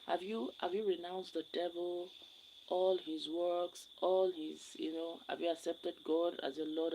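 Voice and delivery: lightly voiced bishop questioning a confirmation candidate; bishop's solemn question. Guest retells the bishop at confirmation, mildly solemn. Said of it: "just the way he said it".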